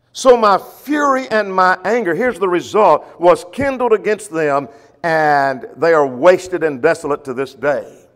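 slow, loud, solemn scripture reading; preaching scripture. Acted. Teacher reading the prophet's words to his class, slow and loud. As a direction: proclaim it like a sermon from the pulpit.

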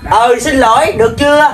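grudging apology, rising into a challenge; improper apology. Acted. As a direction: apologise just to get it over with. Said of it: "xin lỗi đàng hoàng, xin lỗi gì kỳ khôi vậy?". (xin lỗi cộc lốc, miễn cưỡng)

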